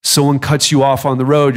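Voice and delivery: ordinary talk, nothing marked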